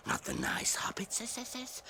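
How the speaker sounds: hushed creature whisper; secret whisper. Acted. Gollum whispers to himself.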